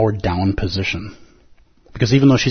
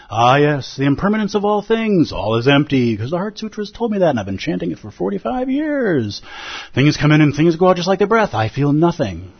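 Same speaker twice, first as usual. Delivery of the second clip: smug enlightened monk; 5 semitones higher than usual. Retold or imitated. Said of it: "I would understand so completely".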